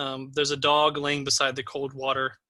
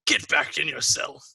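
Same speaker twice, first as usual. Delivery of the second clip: lightly voiced prison guard order; a hint of a stern jailer; gruff guard. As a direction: order a prisoner back, mildly acted. Guard orders prisoner back to cell.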